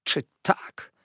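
breathless whisper of a wounded sly man; whispered retort. A narrator's reading. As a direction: hiss it back under the breath. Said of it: "rzekł".

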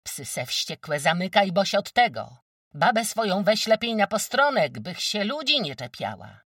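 high, loud explosive retort; bursting shout. Acted. Kozłowa rounding on the wójt, bursting shout. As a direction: let it burst out, unable to hold back. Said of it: "gruchnęła".

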